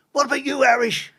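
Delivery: high, loud imitated inmate; prisoner calling out. Prisoner asking the Irishman his offence, calling out. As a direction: holler it over to the next cell, pitched right up.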